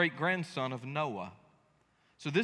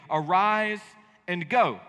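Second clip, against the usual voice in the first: loud, punched Arise and go; emphatic command; 4 dB louder, slower than usual. Shown as a demonstration. Preacher demonstrating the emphatic Hebrew command. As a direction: hit both verbs hard.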